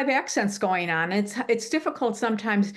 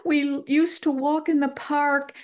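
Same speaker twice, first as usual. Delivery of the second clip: higher, slow imitation of a lovelorn lament; mock-wistful pining for a lost love; romantic lament; 5 semitones higher than usual. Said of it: "would lament".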